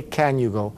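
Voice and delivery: "Can" with a clear A; unreduced "Can" in the question; full-vowel can. Shown as a demonstration. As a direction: sound the whole vowel in "Can". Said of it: "They might say".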